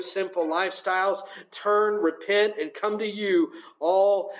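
reverent pastor's prayer; earnest church prayer, swelling in the middle; closing prayer. Acted. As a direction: speak to God on behalf of the room. Preacher leads closing prayer.

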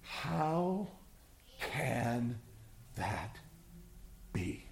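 quiet bewildered murmur; hushed disbelief. Acted. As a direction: ask it in a stunned hush, word by word. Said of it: "we all say".

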